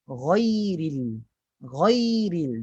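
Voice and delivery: GHAIRIL full and dark, like 'ghoiril'. Shown as a demonstration. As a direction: lift the tongue root on ghai. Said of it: "Daripada atas". (ghairil tebal, pangkal lidah naik)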